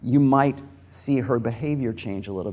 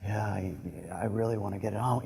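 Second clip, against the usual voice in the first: sexy voice; 8 dB quieter than usual. Retold or imitated. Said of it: "the woman talks to you like this".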